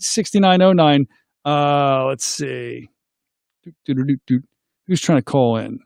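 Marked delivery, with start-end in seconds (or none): 3.6-4.4 idle dooting. Real, not acted. Idle noise while checking calls.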